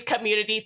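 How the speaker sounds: "community" with emphasis on its first syllable; "community", first syllable stressed for innuendo. Real, not acted. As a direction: lean on the "com" in "community". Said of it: "Emphasis on cum".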